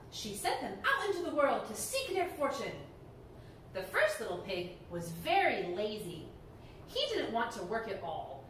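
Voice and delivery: put-on lively read-aloud to children; animated storyteller voice; storybook reading. A narrator's reading. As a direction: tell it like a bedtime story to kids.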